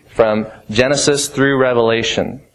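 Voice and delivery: ordinary talk, nothing marked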